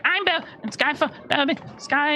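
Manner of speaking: high, tangled stammering; trying again and tripping over it; flustered Belbic. Acted. Belbic rehearsing over and over, high and flustered. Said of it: "He's like".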